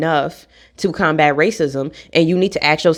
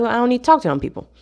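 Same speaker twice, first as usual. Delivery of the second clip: dismissive; 3 semitones higher, much faster than usual. Retold or imitated. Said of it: "And I'm like".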